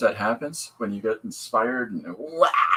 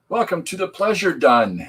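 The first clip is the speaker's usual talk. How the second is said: laughing; 7 semitones higher, 5 dB louder than usual. Real, not acted. Laughing at a typo.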